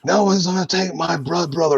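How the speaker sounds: high, fierce put-on voice; heroic character voice. To the kidnappers, a high fierce character voice. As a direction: shout it like a hero defending his friend. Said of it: "I'm like".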